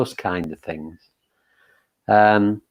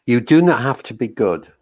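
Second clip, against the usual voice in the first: measured, gentle poetry reading, slightly raised; reading a poem; 3 semitones higher, 3 dB louder than usual. Shown as a demonstration. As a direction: read the opening line like a poem to the group. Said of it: "I'll just start by reading a little bit of, um, uh, Mary Oliver's poem".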